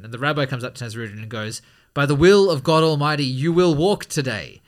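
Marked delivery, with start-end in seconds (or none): 1.9-4.6 mock solemn blessing. Rabbi blesses Nasrudin in joke.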